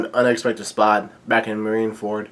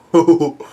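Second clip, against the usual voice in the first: whooping chuckle; 5 semitones higher, 7 dB louder than usual. Real, not acted. Reacts to the huge hole.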